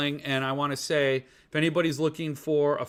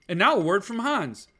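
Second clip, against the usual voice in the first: newscaster voice; 5 semitones higher than usual. Pretend. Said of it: "I'm working on my newscaster voice".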